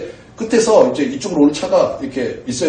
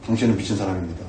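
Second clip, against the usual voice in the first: much lower and softer, deadpan; cold quiet verdict; 10 semitones lower, 10 dB quieter, faster than usual. Retold or imitated. Pastor to the rude parker, a low quiet verdict. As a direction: deliver the verdict low and flat-calm.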